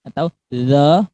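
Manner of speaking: "zo" said as dho; wrong dho sound. Shown as a demonstration. ("zo" salah seperti dzal)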